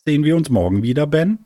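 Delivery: quick, high, eager question; hopeful question. A narrator's reading. Mika asks Ben at parting, hopeful and eager. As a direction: ask eagerly, rising to the name.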